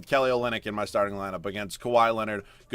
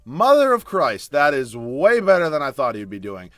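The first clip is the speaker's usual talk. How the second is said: loud, slow amazed exclamation; 3 semitones higher, 9 dB louder than usual. Real, not acted. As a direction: gasp it out in awe. Player's stats beat expectations.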